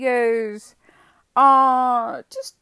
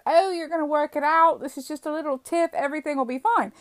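imitating breezy, higher-pitched reassurance; mock reassurance; 5 semitones higher, faster than usual. Ex's family calling after the breakup, dismissively reassuring. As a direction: lightly brush it off as nothing.

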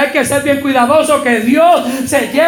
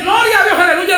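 high lightly voiced praise; a hint of a fervent believer; mock worshipper; 6 semitones higher than usual. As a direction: imitate the shouting churchgoers. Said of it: "Y ustedes dicen".

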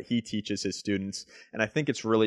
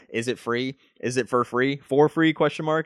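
mocking commenters; 3 semitones higher, 4 dB louder than usual. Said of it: "these people, they're always like".

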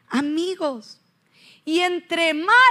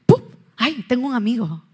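like magic; 6 dB louder than usual. Retold or imitated. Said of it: "Como mágico".

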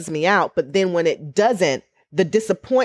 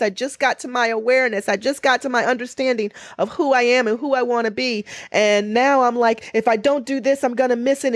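anxious inner voice; 7 semitones higher than usual. Retold or imitated.

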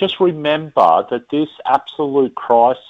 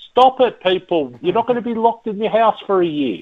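sudden high "stop it", then fast; fed up, scolding the public; exasperated rant; 5 semitones higher than usual. Real, not acted. Ranting about panic buying.

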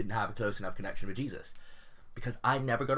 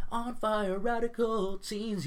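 mock hype; 11 semitones higher, much slower than usual. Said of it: "you know".

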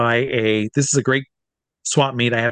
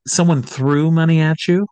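higher, mildly astonished retold question; incredulous question; 4 semitones higher, 4 dB louder than usual. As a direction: ask mom in mock disbelief. Retelling his shocked question to mom.

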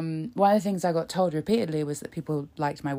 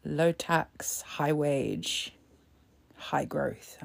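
whispered mock slogan; 2 semitones lower, 4 dB quieter, much slower than usual.

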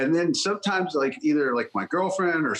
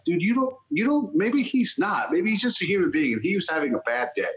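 higher-pitched, pleading objection; imitated earnest protest, pitched up; retold protest; 4 semitones higher than usual. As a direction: push back as if correcting a friend. Retold defence of a celebrity.

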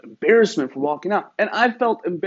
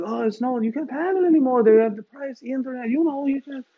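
put-on higher Egyptian-accented protest; 9 semitones higher than usual. Egyptian salesman says haggling is over, higher Egyptian accent. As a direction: pitch it up in an Egyptian accent, insisting. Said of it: "he's got an accent".

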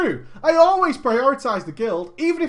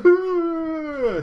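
ordinary delivery

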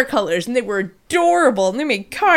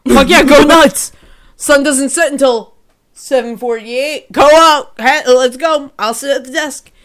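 excited yes; 6 dB louder than usual. Retold or imitated. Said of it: "And I was like".

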